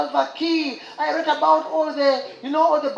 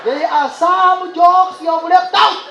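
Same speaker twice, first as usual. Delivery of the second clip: put-on heavy accented tall guy; 4 semitones higher, 4 dB louder, slower than usual.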